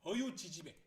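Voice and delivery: loud, exasperated name-calling; exasperated scolding. Acted. Mother finding daughter sleeping late, exasperated. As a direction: burst out in mild annoyance.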